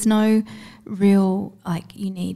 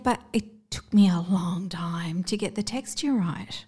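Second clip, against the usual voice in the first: whisper; 2 semitones lower, 6 dB quieter than usual. Real, not acted. Aside, unvoiced.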